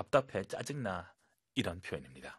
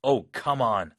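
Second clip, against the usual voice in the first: more solemn; 5 dB louder, much slower than usual. Shown as a demonstration. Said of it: "좀 엄숙하게".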